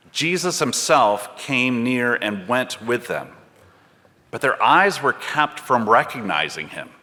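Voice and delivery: measured, unhurried Bible reading voice; scripture reading. Acted. Reader reading Luke to the congregation, measured and unhurried.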